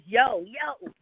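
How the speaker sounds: drawn-out yo, pitch climbing; imitating Eric's greeting. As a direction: mimic a friend's rising call. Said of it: "like Eric".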